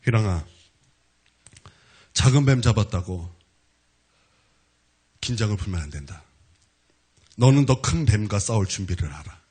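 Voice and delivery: low, measured solemn pronouncement; voice of divine inspiration. Retold or imitated. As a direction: deliver God's warning low, with weighty pauses. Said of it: "기도하는데 감동이 와요". (낮고 엄숙하게 전하는 하나님의 음성)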